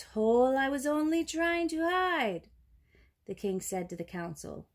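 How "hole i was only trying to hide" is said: lightly voiced python, climbing in pitch; mild plea that rises as it goes; python's protesting cry. A narrator's reading. Python defends himself to the king, mildly rising protest. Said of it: "he cried".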